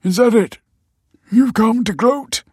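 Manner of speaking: sting her with it; bitter. A narrator's reading. Michael accusing the detective of gloating, bitter and loud. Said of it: "said Michael bitterly".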